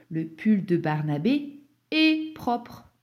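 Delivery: est said as a long closed é, like the word et. Shown as a demonstration. Teacher warning of a dictation trap, est mispronounced as a closed é. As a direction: stretch est into a long high é, as in et. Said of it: "pas de petit mot E".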